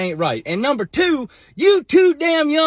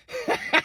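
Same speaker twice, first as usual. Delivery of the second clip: high laugh; 13 semitones higher than usual. Real, not acted. Laughing at the story's end.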